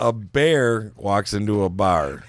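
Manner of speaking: slow, deliberate restart of the joke line; careful correction. Real, not acted. Joke teller fixing his muddled opening, slow and deliberate. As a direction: spell it out slowly after a fumble.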